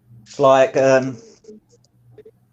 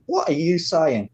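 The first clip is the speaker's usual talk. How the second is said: mildly mocked-up puzzlement, pitched higher; lightly acted confusion; baffled reaction; 4 semitones higher, 4 dB quieter than usual. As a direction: act out being lost by someone's phrase. Acted bafflement at regional phrases.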